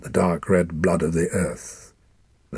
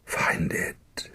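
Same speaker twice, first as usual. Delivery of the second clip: weak whisper; 4 dB quieter than usual. Acted. Dying father's last words.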